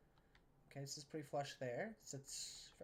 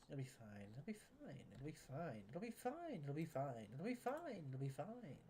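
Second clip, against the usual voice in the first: mock reassurance; 3 dB quieter than usual. Builder convinces viewers about the dirt, singsong mock reassurance.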